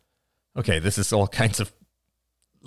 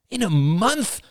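high, loud cry of disbelief; loud, much higher disbelieving cry; cried out; 3 dB louder, slower than usual. A narrator's reading. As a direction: throw the question out in alarm. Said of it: "cried William".

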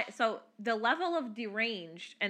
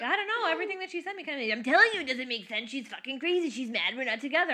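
higher, whiny mock girlfriend complaining; mother voicing the girlfriend to her daughter; 4 semitones higher than usual.

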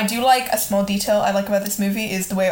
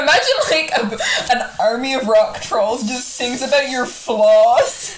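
laughing; 3 semitones higher, 3 dB louder, slower than usual. Real, not acted. Laughing while describing.

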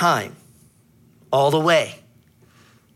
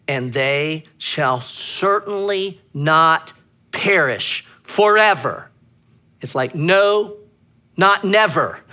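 emphatic; 3 semitones higher, 5 dB louder, slower than usual. Real, not acted. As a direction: drive home that it's not never. Emphatic Greek rendering, insisting.

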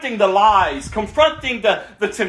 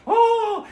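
mock crying out; 12 semitones higher than usual. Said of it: "they're crying out to him".

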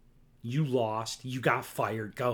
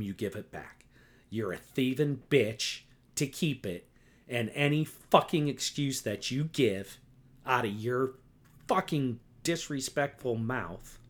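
angry rant; 2 semitones higher than usual. Real, not acted. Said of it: "that's how angry I am".

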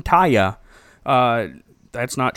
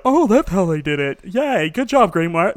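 mock praise; 3 semitones higher, 4 dB louder than usual. Mocking DreamWorks' cleverness.

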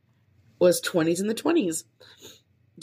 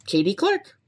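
whispered name; 5 semitones higher, 4 dB louder than usual. Shown as a demonstration. Podcaster testing her new surname, whispered. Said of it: "I wanna do Clark".

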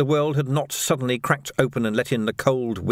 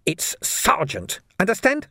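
a hint of a hiss, drawn out slowly; slow mild hiss; 8 semitones higher, slower than usual. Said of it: "he hissed".

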